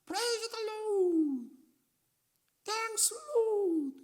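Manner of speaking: very high, drawn-out cry of praise; ecstatic praise. Retold or imitated. Teacher learning she is pregnant after nine years, very high ecstatic cry. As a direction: sing out the praise in pure joy. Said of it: "막 소리를 지르는데".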